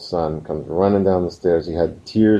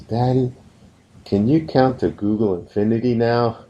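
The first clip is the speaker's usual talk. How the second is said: lightly voiced little boy, higher pitch; happy child; 4 semitones higher than usual. Four-year-old asking daddy to keep hugging, happy higher voice. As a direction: imitate a delighted small son asking. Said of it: "he's so happy".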